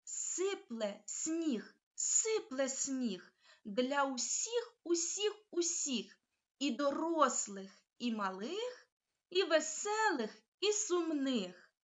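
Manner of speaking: slow, rhythmic chant of the rhyme; tongue twister read slowly. Shown as a demonstration. Teacher reading a tongue twister slowly to the class. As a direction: read the rhyme for the children to repeat. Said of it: "прочитати скоромовку".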